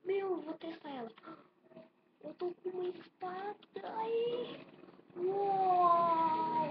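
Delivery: loud, thrilled shouts; thrilled at the find, shout it; excited. Acted. Finds a sword, thrilled.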